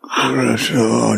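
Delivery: choked voice with a sob; fighting back tears as he says her name; tearful. Acted. Dying husband to his wife Corazon, tearful.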